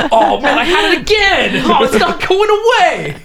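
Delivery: high, laughing mock panic; panicked whining. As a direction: whine it like a spooked villain. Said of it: "He's like".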